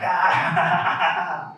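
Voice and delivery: high open-mouthed imitation of a laughing uncle; put-on cackling "Ah"; mock laugh. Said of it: "he's laughing like".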